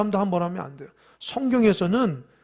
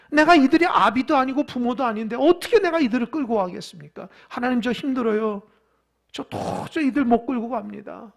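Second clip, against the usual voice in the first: acted plea, starting raised then easing; despairing confession; 4 semitones higher, 4 dB louder than usual. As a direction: play a worn-down leader pleading with God. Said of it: "절망하여서 하나님 앞에 고백하는". (절망 섞인 하소연 연기)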